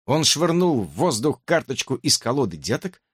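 usual speaking voice

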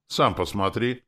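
put-on a boy exclaiming in offense; offended cry. A narrator's reading. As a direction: insist like a wronged kid. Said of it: "воскликнул обиженно пацан".

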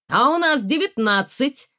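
high, loud gleeful shout. Acted. Lyonya shouting the score to the players, loud and gleeful. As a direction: crow the score across the table. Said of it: "опять закричал Лёня".

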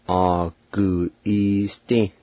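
"Aguiste" slowly joined with held vowels; "Aguiste" carefully measured for learners; slow pronunciation demo. Shown as a demonstration. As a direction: stretch out "Aguiste" syllable by syllable. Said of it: "now pronounce these words".

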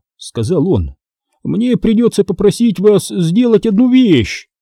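lightly voiced anxious old man. A narrator's reading. Seller urging the family to buy, nervous. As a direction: push the sale a touch eagerly.

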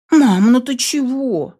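alarmed. A narrator's reading. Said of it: "всполошилась моя зая".

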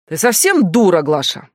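громкий возмущённый вопрос; сорвись на неё криком. Acted. Стас кричит на Глашу. (начальник кричит на Глашу, возмущённо)

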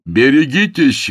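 high, loud, drawn-out warning cry; sudden shout. A narrator's reading. James warns Rosa of the car, shouting. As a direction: yell to stop her in time. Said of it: "вдруг закричал он".

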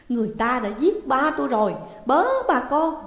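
high, loud cry to neighbours; raising the alarm. A narrator's reading. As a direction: holler for the whole village to hear. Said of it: "cô la làng chối lối". (la làng kêu cứu)

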